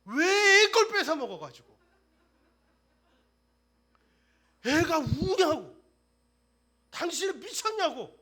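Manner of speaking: high, loud, furious scolding; wife shouting at husband for taking child's ice cream; scolding mother. Retold or imitated. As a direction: yell at the husband like an angry wife. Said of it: "아빠를 혼내요".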